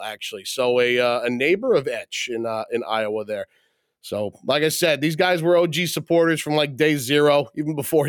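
upbeat host read introducing the guest; podcast host intro. Acted. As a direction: welcome the listeners like a show host. Host opens the episode intro.

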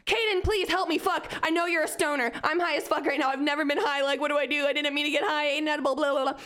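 retold freak-out, pleading for rescue; panicked plea. High student begging a stoner classmate for help, in mock panic.

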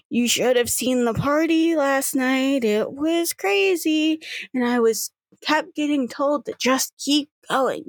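pleading excuses, pitch lifted; apologetic granddaughter. Acted. Solus excuses herself to grandma.

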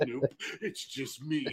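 soft, slow flat denial; deadpan. Retold or imitated. Deadpan reply in bear skin.

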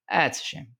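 Jerry Seinfeld deadpan, high and dry; mock sympathy, bone dry. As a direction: say it with total fake sympathy. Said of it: "the total deadpan".

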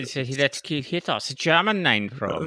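put-on light German accent throughout; understated German accent; mock German accent. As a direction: play the German host lightly. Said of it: "very German accents".

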